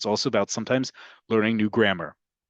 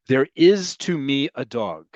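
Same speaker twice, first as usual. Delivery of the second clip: slow careful model; 2 semitones higher than usual. Shown as a demonstration. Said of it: "notice who gets the emphasis".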